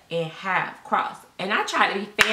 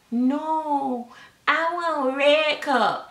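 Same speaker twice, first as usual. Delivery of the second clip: put-on demanding toddler; 6 semitones higher, much slower than usual. Toddler demanding red cup.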